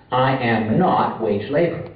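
slow, leaning on "not" in "I am not wage labor"; stress on not. Shown as a demonstration. Lecturer demonstrating the first negation, stressing "not". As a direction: hit the word "not" firmly and slowly. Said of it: "Here the emphasis is on the not".

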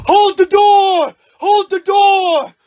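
slow, stretched-out shouted order; drawn-out call. Acted. Dad orders the door held shut, drawn-out shout. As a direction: call it out, dragging each word.

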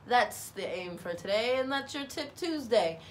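lightly put-on announcer voice. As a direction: sign off like a radio announcer. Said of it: "why I'm speaking like an announcer now".

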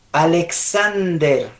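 slow "Alexander"; every syllable of "Alexander" stretched; careful pronunciation. Shown as a demonstration. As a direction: sound out a-lek-SAN-der. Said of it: "vamos a pronunciar estos nombres".

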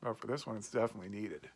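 talking around pipe stem; pipe in mouth. Real, not acted. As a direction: lips clamped on pipe. Seen 2: Pipe stem held between lips throughout, R frames show no pipe.

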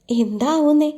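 teasing lilt with a sly grin. Acted. Husband teasing his shy wife, sly grin in the voice. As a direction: tease her with a sly smile. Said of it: "ഒരു കള്ളച്ചിരിയോടെ ചോദിച്ചു".

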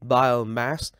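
"biomass" with BI stressed; first-syllable stress. Shown as a demonstration. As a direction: say "biomass" leaning on BI. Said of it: "Các bạn nhấn vào vần bi".

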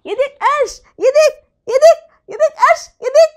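very high, loud coaxing; high baby talk. Acted. Boy coaxing his crying brother in high baby talk. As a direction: coax the baby to look.

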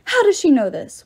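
a ghost cries out in alarm; demanding. A narrator's reading. Ghost demands answers from the others, alarmed and loud. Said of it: "one demanded".

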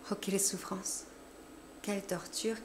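anguished whisper. A narrator's reading. Anguish after the fit.

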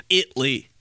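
clipped "Italy", said It-lee; Italy in two syllables. Retold or imitated. Mocking dad's way, "Italy" as It-lee. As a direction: say "Italy" without its middle vowel, It-lee. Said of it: "he doesn't even say Italy".

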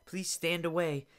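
very high, loud whiny plea; mocking the woman. Mimicking the woman begging him to stand away, high and loud. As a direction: sneer it out in a shrill pleading voice. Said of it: "she's like".

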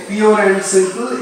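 drawn-out, careful phrase; slow idiom demo. Shown as a demonstration. Teacher repeats the idiom for the class, slowly. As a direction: say it slowly so it sinks in. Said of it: "এই ইডিয়মটা use করতে হবে".

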